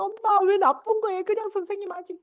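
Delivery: high-pitched whining, imitating a crying daughter; tearful child. Daughter coming home crying to her mother, imitated tearful whine. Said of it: "그렇게 울고".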